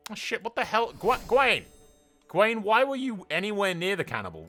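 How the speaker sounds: high, loud cry of alarm; alarmed outburst. Real, not acted. Gamer spots Gwaine near the cannibal, alarmed shouting. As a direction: yelp out the name in shocked disbelief.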